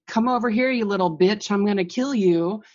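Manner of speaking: lightly hammed-up aggression; mock threat. Acts out imagined angry threat to a jerk.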